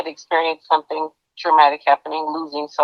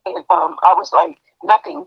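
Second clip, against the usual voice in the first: halting, voice giving out on tears; choked up. Real, not acted. Retelling her friend's phone call, choked up. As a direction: push on haltingly through the lump in your throat. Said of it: "I'm getting choked up".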